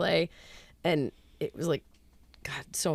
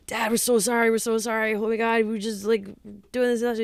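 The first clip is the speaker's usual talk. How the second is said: higher-pitched imitation of frantic apologizing; apologetic son; 5 semitones higher than usual. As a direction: play a kid pleading with dad. Son pleading apology to rich dad.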